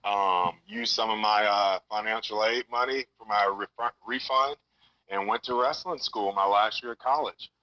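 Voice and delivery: like a caller on speakerphone; phone speaker. Real, not acted. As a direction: voice over a speakerphone line. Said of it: "You're on speakerphone right now".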